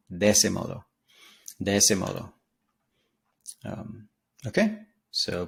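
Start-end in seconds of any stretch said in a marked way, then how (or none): 0.1-2.3 "De ese modo" said as one linked unit; words run together. Shown as a demonstration. Teacher repeating the lyric for learners, words run together. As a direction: let "De ese" flow straight into "modo". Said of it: "sound like it runs together".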